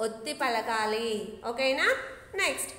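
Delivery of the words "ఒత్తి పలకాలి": slow, pressed ఒత్తి with a doubled t; teacher stressing ఒత్తి slowly; emphatic, slow. Shown as a demonstration. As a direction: lean hard on ఒత్తి for the children. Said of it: "ఎలా పలకాలి children?".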